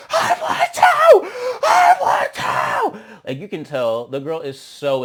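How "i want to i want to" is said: very high, slow shrieked wail; mock crying wail. Imitating Mariah crying that she wants another round. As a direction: wail it like a tantrum through tears. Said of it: "like, crying, being like".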